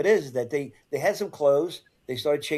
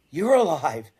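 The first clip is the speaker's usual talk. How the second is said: high, loud-peaking swell on "You're"; incredulous echo; 4 semitones higher, 4 dB louder, slower than usual. Retold or imitated. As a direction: throw "You're alive?" back in disbelief. Retold reunion, he echoes in disbelief.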